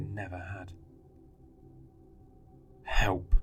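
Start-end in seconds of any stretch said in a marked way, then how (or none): 2.8-3.3 loud desperate scream for help. A narrator's reading. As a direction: scream it with everything. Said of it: "I screamed".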